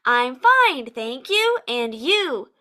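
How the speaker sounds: imitating students' set "I'm fine, thank you, and you?" pattern; same rote inflection. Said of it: "and the same inflection".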